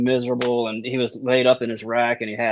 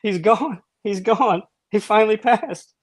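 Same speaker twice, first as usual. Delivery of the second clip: much higher, hammed-up grieving wail; mock mourning cry, pitched high; 9 semitones higher, slower than usual. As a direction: fake sobbing over a dead buddy. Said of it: "He's acting like he's crying".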